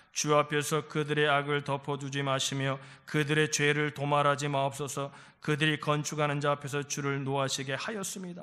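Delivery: low, even reading-aloud voice; scripture reading. Real, not acted. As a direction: read the passage out low and steadily. Reads scripture with congregation.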